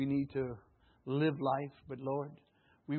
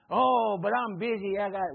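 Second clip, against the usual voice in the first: whiny excuse; 5 semitones higher, 7 dB louder than usual. Acted. Mock excuse of busy believer.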